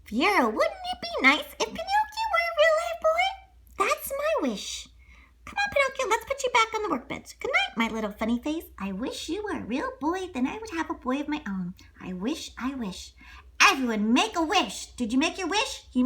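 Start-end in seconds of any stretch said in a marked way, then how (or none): 0.0-4.9 put-on high, tender old man's wish; old toymaker making a wish to his cat; Geppetto wishing. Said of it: "Figaro, the cat". 5.4-6.1 unvoiced whisper; whispering to the puppet at bedtime. Geppetto hushes at night. 6.1-13.1 put-on high, tender old man's wish; old toymaker making a wish to his cat; Geppetto wishing. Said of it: "Figaro, the cat".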